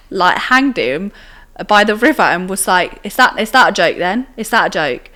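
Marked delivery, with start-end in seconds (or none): 3.0-5.1 louder, retold challenge to a joker; pressing him with a mock-stern question; mock confrontational. Older guy confronts the boy over his prank, confrontational.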